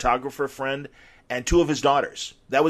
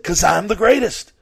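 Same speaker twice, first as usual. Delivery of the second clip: proud boast; 7 semitones higher, 6 dB louder than usual. Retold or imitated. Ali's punchline in the washroom.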